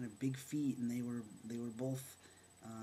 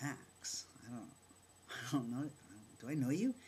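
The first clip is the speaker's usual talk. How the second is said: retold baffled questioning, rising at the end; puzzled. Teller fails to place the man greeting them, puzzled. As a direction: act out drawing a blank. Acted puzzlement at not recognising him.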